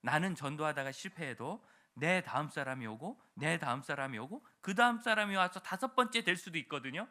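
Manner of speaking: normal talking voice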